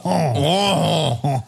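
mock French honk; silly stereotyped French sound; fake French noise. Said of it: "That's not even French. That's just rude".

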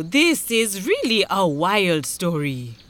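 slow, measured chief's verdict; a hint of a stern chief; scowling chief. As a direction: pronounce it slowly as the chief. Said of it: "he said at last".

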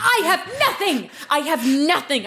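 laughing through a mock wail of despair; hammed-up despairing cry, cracking up. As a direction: break into laughs while claiming to have nothing.

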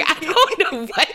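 rumbly, raspy smoker voice; rough, rumbly throat. Real, not acted. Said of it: "eighty-year-old smoker ... rumbly".

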